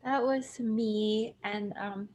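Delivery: audio through computer speakers; tinny laptop mic sound. Real, not acted. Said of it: "I apologize in advance for my audio because I cannot find my headphones, so I'm speaking through the computer itself".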